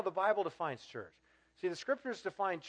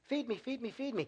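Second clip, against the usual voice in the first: mock whiny demand; 7 semitones higher than usual. Mocking the consumer churchgoer.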